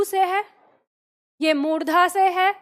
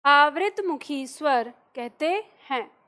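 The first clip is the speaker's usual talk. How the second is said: slow dictation. Shown as a demonstration. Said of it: "लिखिए".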